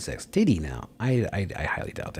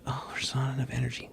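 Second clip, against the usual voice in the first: mocking whine; 6 semitones higher, 3 dB quieter than usual. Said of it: "It's like".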